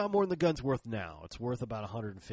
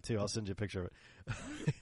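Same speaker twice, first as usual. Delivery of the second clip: ordinary talk, nothing marked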